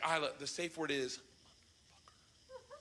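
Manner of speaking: slow, defeated confession; reluctant slow admission. Retold or imitated. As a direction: drag the words out. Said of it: "He's like".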